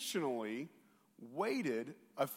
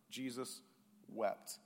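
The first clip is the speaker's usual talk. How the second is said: hushed reverence; 7 semitones lower, 9 dB quieter, slower than usual. Shown as a demonstration. Shortest verse said softly.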